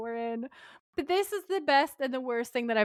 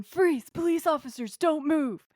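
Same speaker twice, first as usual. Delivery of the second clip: high, urgent police command, lightly raised; mock police shout; 5 semitones higher than usual. Dean and Sam confronting the crew, mock shout. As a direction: call out orders like a TV cop. Retelling police calling out orders.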